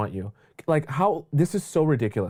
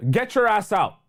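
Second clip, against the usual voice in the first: ordinary talk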